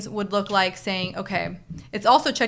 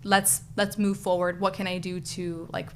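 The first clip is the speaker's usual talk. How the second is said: gentle apology; 3 dB quieter than usual. Shown as a demonstration. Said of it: "just saying".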